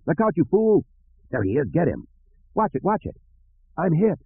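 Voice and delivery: high panicked shouts; bounty hunters yelling under fire; yelling in battle. A narrator's reading. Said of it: "There was a lot of yelling".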